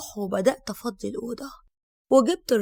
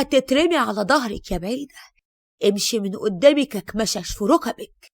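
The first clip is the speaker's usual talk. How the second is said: angry retort; 4 dB louder than usual. Acted. Mother-in-law snapping back curses.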